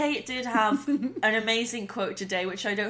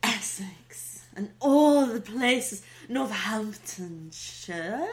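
slow, drawn-out teasing imitation; mock wistful; much slower than usual. Host mimicking how friend says town names, mock wistful. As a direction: linger dreamily on each place name. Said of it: "It makes it sound like".

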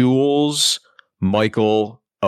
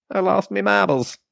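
put-on higher, playful British accent; 9 semitones higher than usual. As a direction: toss it off in a cheeky British accent. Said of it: "that's not the accent I'm gonna go with".

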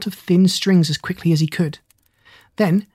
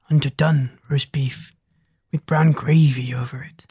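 sleepy mumble; 3 semitones lower than usual. A narrator's reading. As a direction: mumble it like a dog dreaming of dinner. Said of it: "he mumbled".

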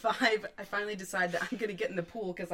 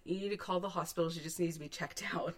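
urgent instructions; 4 semitones lower, 5 dB quieter, faster than usual. Retold or imitated.

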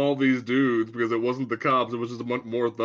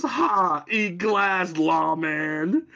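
mock tough-guy Batman quip; a hint of a cheesy Batman; hammed-up hero line; 5 semitones higher, much slower than usual. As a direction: play it as a corny action hero, lightly. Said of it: "and says".

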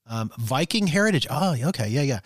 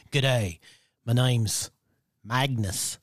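slow Australian country drawl; Australian country accent; slower than usual. Pretend. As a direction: put on a rural Aussie accent, pausing before the name. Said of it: "but Australian country accent".

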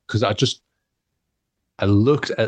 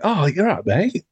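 friendly greeting; 8 semitones higher than usual. Retold or imitated. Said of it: "thinking he's just, like, you know, a stranger".

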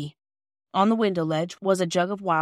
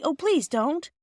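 pleading please; 8 semitones higher, slower than usual. Acted. Children begging Mrs Perks.

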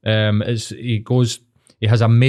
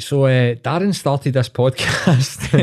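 slow, higher narrator voice breaking into laughter; mock documentary narrator; 3 semitones higher, much slower than usual. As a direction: spoof a grave TV narrator but crack up. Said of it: "you'll be like".

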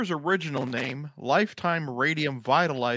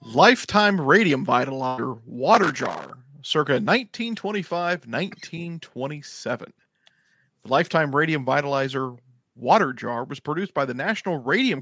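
announcer voice. Acted. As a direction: sell it like a vintage radio ad. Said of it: "Announcer voice, Thad".

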